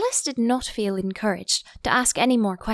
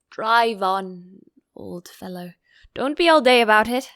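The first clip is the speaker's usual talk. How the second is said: impatient Gryphon; 6 dB louder than usual. Acted. Gryphon orders Mock Turtle.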